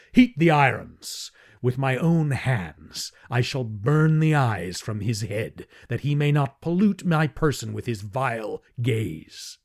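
an angry Jedak promising torture; raging tyrant. Acted. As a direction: threaten with cruel relish. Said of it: "he shrieked".

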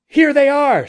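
high, loud answering call; full-voiced, high shout; shouting back. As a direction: call it out across the distance. Shouted parley in the dark.

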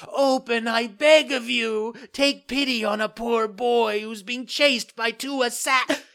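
very high, loud pleading call; crying out. Acted. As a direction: call up to her window, desperate. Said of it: "cried Pinocchio".

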